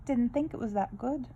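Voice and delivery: a weak attempt at a British accent; a half-hearted British accent; bad British accent. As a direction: try a British accent and miss. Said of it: "that's a bad accent".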